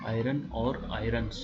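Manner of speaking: slow, setting आयरन against आयरन्स; careful contrast. Shown as a demonstration. Teacher contrasting आयरन and आयरन्स for students, slowly. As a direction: lean on the final s of आयरन्स. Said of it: "आयरन नहीं, आयरन्स।".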